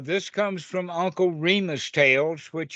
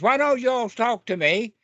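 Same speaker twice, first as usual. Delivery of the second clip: mild mock anger; 6 semitones higher than usual. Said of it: "rabbit got kind of angry".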